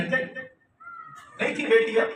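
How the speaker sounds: نہیں تھی بیٹیاں said very softly and slowly; soft slow aside. Shown as a demonstration. Preacher hushing the crowd, very soft and slow. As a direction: let the words fall almost to nothing.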